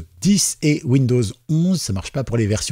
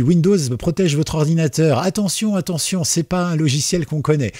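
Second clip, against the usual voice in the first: Attention jumps high in a mock alarm voice; voix d'alerte moqueuse; mock alarmed warning; 6 semitones higher than usual. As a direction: play the nervous Windows warning, lightly. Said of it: "il me dit".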